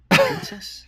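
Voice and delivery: very high, loud squeak of a word; mock squeaky question. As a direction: squeal it like a teasing falsetto. Player teasingly guesses her rank.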